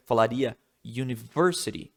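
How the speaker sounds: "university" with the stress on "ver"; English stress on versity. Shown as a demonstration. Teacher models English word stress. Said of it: "Em inglês, você falaria".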